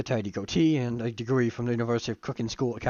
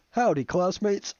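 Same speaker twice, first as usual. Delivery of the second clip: slow, booming southern howdy; Colonel Sanders voice; 6 semitones higher, 3 dB louder, slower than usual. Acted. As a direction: drawl a big friendly greeting. Colonel Sanders greets class.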